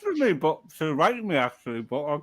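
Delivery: muffled by food while talking; mouth full. Real, not acted. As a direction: talk through a mouthful. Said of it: "I'm trying to speak with food in my mouth".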